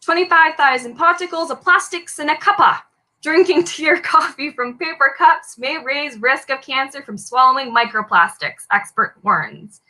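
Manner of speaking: a light, hammed-up British accent on a news headline; mock British accent. Quiz host reads a Daily Mail headline in a self-mocking British accent. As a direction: play at being a British newsreader, only half committed. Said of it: "read this one out in a British accent".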